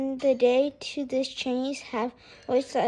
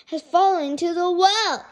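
high, loud, broken attempts; gasping report; 6 semitones higher, 6 dB louder than usual. A narrator's reading. Boy struggles to finish telling his mother, gasping. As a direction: stumble and restart as if gasping for air. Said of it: "he gasped".

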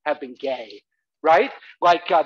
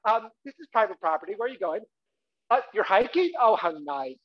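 imitating fussy mother; 3 semitones higher than usual. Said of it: "my mother would go out there and go".

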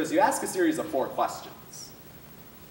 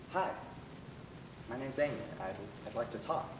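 put-on softer, hesitant voice of a scared girl; scared young voice; 3 semitones lower, 13 dB quieter than usual. Amy phoning the crisis line, softly scared. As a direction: shrink into the phone as the shy caller. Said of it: "young, cute, but scared voice".

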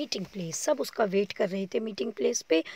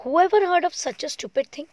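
scornful; 6 semitones higher, 6 dB louder, slower than usual. A narrator's reading. Makra mocks the tortoises.

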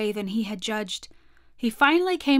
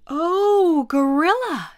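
higher, louder eager call; eager father; 7 semitones higher, 6 dB louder, slower than usual. Acted. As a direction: call out brightly with an idea. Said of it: "said my father".

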